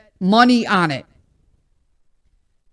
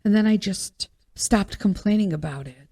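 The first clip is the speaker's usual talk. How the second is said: mocking others; 4 semitones lower, 7 dB quieter than usual. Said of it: "Everyone's like".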